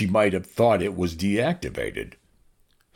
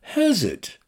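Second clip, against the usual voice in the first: level Arthur; 3 dB louder than usual. Acted. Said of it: "said Arthur levelly".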